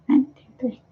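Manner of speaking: "One, two, three" whispered under the breath; whispered count. Real, not acted. Promising viewers card readings next week, whispered count.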